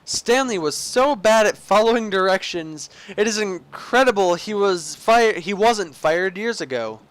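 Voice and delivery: emphatic storyteller with lilting pitch; game story narration. Acted. Player as narrator reasoning with Stanley, theatrical narration. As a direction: play the narrator addressing the character.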